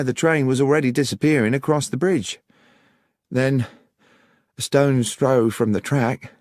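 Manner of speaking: put-on high-pitched young countrywoman recounting events; Miss Miller, earnest country witness. Voices Miss Miller in story.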